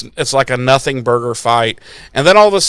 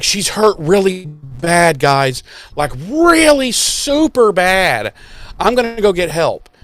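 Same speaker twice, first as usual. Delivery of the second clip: Anya voiced; 3 semitones higher, slower than usual. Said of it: "Anya's like".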